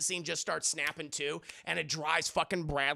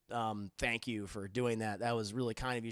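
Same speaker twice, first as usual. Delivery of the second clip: softer, lower bashful thanks; shy thanks; 7 semitones lower, 7 dB quieter than usual. Retold or imitated. Max shyly thanking Beret Girl.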